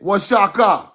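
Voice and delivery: "Washaka" built from wa and sha; corrected pronunciation. Shown as a demonstration. Summing up the letter lesson, demonstrated pronunciation. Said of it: "O is Y, X is Sha".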